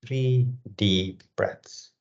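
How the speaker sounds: measured meditation guidance with long, spacious pauses; guided meditation. Real, not acted. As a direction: guide them through breath awareness, phrase by unhurried phrase. Leads a breathing meditation.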